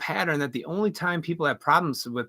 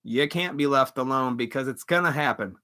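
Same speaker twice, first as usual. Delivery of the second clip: usual speaking voice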